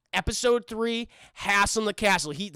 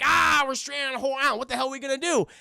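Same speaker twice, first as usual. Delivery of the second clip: higher, hammed-up group alarm; mild pretend panic, pitched up; mock panic; 4 semitones higher than usual. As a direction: play cartoon castaways in a fluster. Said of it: "And they're like".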